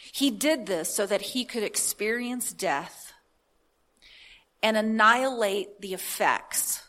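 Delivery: slow, measured scripture reading with weighted phrases. Real, not acted. Preacher reading the Passion Translation to listeners, scripture reading. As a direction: read it out deliberately, pausing between phrases.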